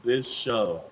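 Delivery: low, soft, slow verdict; dazed disbelief. Retold or imitated. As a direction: let it sink quietly, slowly, with pauses. Dazed verdict after the frantic retelling.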